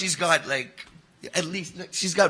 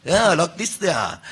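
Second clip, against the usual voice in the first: South African accent; 4 dB louder, slower than usual. Shown as a demonstration. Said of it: "This year I'm trying to learn South African".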